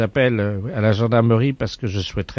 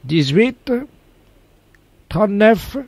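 hammed-up lottery call-out; 8 semitones higher, 3 dB louder, slower than usual. Prank caller gives absurd birth date.

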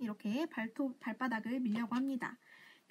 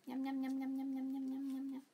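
chewing sound effect; 4 dB quieter than usual. Retold or imitated. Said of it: "먹방 보여드릴게요".

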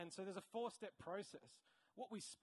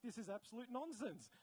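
exasperated dismissal; 5 semitones higher than usual. Acted. Researcher reacting to a tiny sample size, exasperated. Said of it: "and you're like".

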